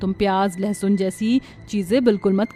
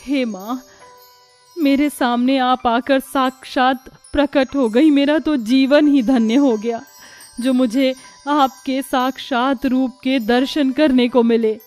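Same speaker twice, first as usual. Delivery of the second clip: awed devotion; 2 semitones higher, 4 dB louder than usual. Acted. Devotee overwhelmed before goddess.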